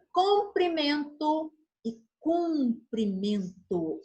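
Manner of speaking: Comprimento e cumprimento drawn out slowly, open O then closed U; slow teacher's model of Comprimento e cumprimento; slow careful contrast. Shown as a demonstration. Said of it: "Essa também causa muita confusão".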